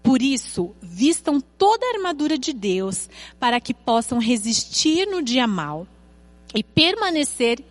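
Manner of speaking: measured, emphatic Bible reading with stretched key words; solemn read-aloud with weighty pauses; scripture reading. Acted. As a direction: read the verses out deliberately to a congregation. Reads Bible passage aloud.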